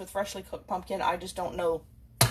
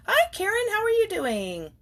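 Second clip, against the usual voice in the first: cheery greeting; 12 semitones higher, 4 dB louder than usual. Real, not acted. Greeting Karen as she arrives, high cheerful hello. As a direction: sing out a hello to a friend.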